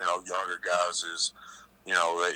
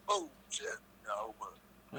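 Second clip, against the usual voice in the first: laughing; 3 semitones higher, 14 dB quieter, much slower than usual. Real, not acted. Laughing fit, trailing off.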